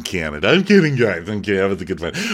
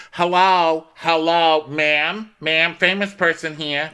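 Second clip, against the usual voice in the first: higher, calling hello; 9 semitones higher, slower than usual. Retold or imitated. Jill hailing a passing customer, mock calling out. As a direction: call after a stranger.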